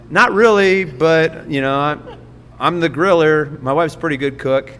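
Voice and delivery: put-on flustered laughing answer to an old lady; flustered laughing reply. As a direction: bashfully laugh off the flirt.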